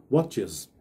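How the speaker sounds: watches said as wot-chiz, the E like I and the S like Z; watches with iz ending. Shown as a demonstration. Teacher to students demonstrating watches ending in iz. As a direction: end watches on a buzzing iz. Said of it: "ele fica assim como mais ou menos um som de I".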